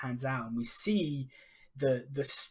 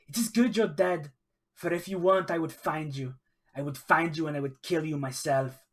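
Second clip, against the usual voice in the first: May screaming curses at the sky, rising then easing; cursing scream; 3 semitones higher, 4 dB louder, faster than usual. Acted. Grieving sailor curses the storm god, raging shout. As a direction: hurl it upward at a dead god, furious. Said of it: "she's screaming to the, the sky".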